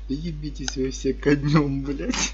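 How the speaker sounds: slow, loud cursing granny; hammed-up grumpy granny voice; foul-mouthed granny. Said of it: "И такая говорит".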